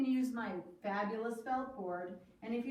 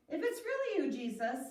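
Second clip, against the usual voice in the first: calling out; 5 semitones higher, 4 dB louder than usual. Acted. Peter calling to Jesus.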